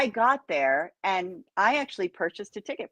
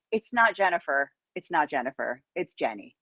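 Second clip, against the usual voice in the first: quiet, lower matter-of-fact correction; confident; 4 semitones lower, 4 dB quieter than usual. Retold or imitated. Woman imitating Scotty correcting her name, casually confident. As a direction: drop it low and soft, completely sure. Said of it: "This is his confidence".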